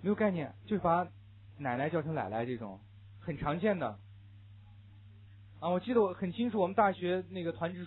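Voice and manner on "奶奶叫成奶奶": first "奶奶" with n, second "奶奶" as lai-lai; n/l confusion. Shown as a demonstration. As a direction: demonstrate "奶奶" turning into lai-lai. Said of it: "呢了不分的现象".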